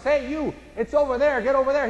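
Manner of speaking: bossy stranger shooing you along; mock curt instructions. Mock curt directions giver.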